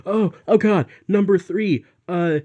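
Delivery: a nervous student caught out in class; panicked student. Retold or imitated. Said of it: "I'm not the kind of person who's like".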